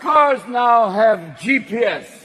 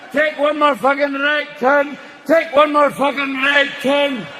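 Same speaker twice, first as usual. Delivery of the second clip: Scottish GPS; 5 semitones higher than usual. Retold or imitated. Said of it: "Scottish G P S".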